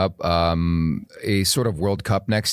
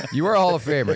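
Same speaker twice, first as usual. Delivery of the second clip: excited; 7 semitones higher, faster than usual. Real, not acted. Host repeats greeting excitedly.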